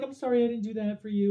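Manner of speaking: lightly put-on motherly apology; imitated mom. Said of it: "She's like".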